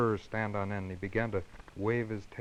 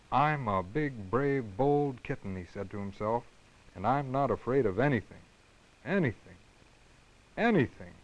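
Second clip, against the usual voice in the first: boastful. Acted. Kitten boasting to himself.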